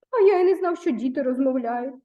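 amazed, voice jumping up on the first words; surprised. Acted. Spider answers the girl, just as amazed. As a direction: sound genuinely astonished that children can talk. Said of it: "не менш здивовано відповів павучок".

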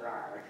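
brief understated mock roar; quick little "rawr" growl; monster growl. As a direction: token monster noise. Imitating a hideous monster.

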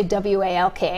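W A L K spelled letter by letter. Shown as a demonstration. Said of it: "instead of saying walk".

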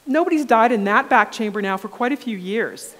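mock-cheery scientist brushing off the danger; cheery reassurance. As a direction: toss off the grim fact cheerfully. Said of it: "She says".

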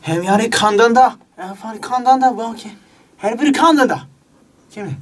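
fake Korean. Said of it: "それっぽい韓国語で".

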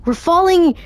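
high, worried call; alarmed exclamation. Real, not acted. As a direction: say it as it starts to sink in. Repeats in rising alarm.

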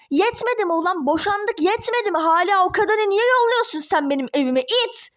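heated, rising angry accusations; furious berating. Acted. Ex-wife accuses Ali of sending that woman, furiously. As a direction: tear into him in a rage.

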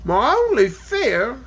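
a dragon voicing a worry, unhurried; gruff dragon. Dragon telling the travellers his fear, slow and lightly gruff. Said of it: "His voice was a little gruff".

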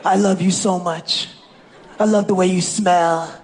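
lightly voiced crooning to Putin; comedian's Trump swoons over Putin, half-singing the last line; lovesick Trump. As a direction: croon like a smitten lover. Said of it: "Now he's into Russia".

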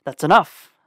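loud, sharp command cutting them off; barked order. A narrator's reading. Weapons master halting the quarrel, loud bark. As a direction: bark it to stop the fight. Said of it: "Brulo barked".

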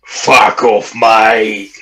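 lightly hammed-up bloke; a hint of local lad, drawn-out mate; put-on bloke voice. Mocking blokes who put it on, bloke voice. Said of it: "I wonder if they're putting it on".

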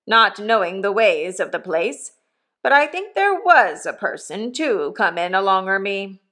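hint of a coarse old convict talking to his boy; rough convict. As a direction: give the old convict a bluff, hearty push. Convict Magwitch voiced in story.

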